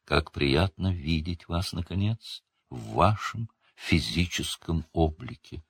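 a hushed unearthly seer greeting; echoing ethereal energy being. A narrator's reading. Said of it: "приглушённый, почти неземной голос".

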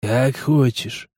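indifferent. Acted. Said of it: "Всё так же равнодушно ответил тот".

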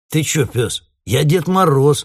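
mumbled through a sweater collar; muffled, loud and high. A narrator's reading. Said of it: "промычал Гоша". (приглушённо, сквозь свитер)

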